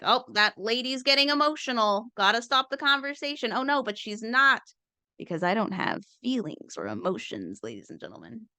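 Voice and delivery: lightly voiced condescending man; a hint of a smug opponent; mock opponent. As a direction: play the dismissive debater, fading out. Voicing opponent thoughts.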